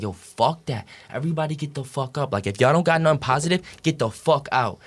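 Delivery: retold angry outburst, pitch lifting; worked-up, mock angry demand; dad freaking out. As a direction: act out a dad's heated tirade, mildly. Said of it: "he started freaking out".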